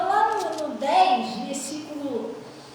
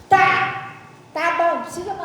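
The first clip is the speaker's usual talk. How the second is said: abrupt brush-off; 7 dB louder than usual. Retold or imitated. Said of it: "nunca vi um troço tão fingido".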